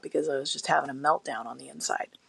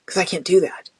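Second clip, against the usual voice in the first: whispered aside; 2 semitones lower than usual. Real, not acted. Patient explaining live vaccine risk in a whisper.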